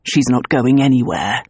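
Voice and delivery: low, firm refusal; hard cold refusal. Acted. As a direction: refuse coldly. Hardened jaw.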